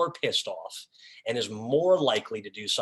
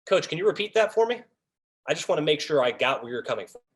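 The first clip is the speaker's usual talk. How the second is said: higher, courteous request, then quicker; calm polite check-in; 4 semitones higher, faster than usual. Shown as a demonstration. Official asking the coach to repeat, politely. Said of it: "Cut through all that B S".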